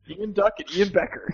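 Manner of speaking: playfully swapped name sounds; jumbled syllables. Retold or imitated. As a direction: mix the first letters of the names as a joke. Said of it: "Spoonerism show".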